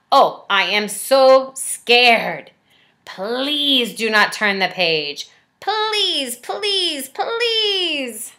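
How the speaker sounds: high, whimpering pleas; terrified Grover begging. Acted. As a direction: beg desperately, near tears. Grover begs in fear.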